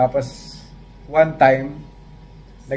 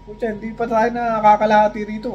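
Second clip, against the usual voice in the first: exasperated complaint; 8 semitones higher than usual. Retold or imitated. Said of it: "Di sabi ko".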